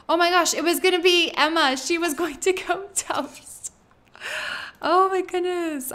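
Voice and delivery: high, loud freak-out; freaked out and high-pitched; panicked relief. Real, not acted. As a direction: blurt it out high and alarmed, then let out relief. Panics as a character nearly toasts.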